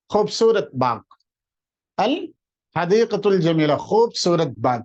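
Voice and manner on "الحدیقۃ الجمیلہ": الحدیقۃ الجمیلہ drawn out slowly in Arabic; careful slow Arabic reading; slow Arabic phrase. Shown as a demonstration. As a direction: read الحدیقۃ الجمیلہ slowly, every syllable clear. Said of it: "repeats Arabic demo slowly".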